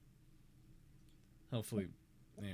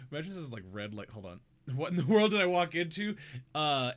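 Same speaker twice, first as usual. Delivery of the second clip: normal talking voice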